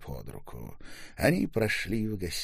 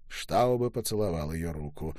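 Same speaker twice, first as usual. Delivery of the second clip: ordinary delivery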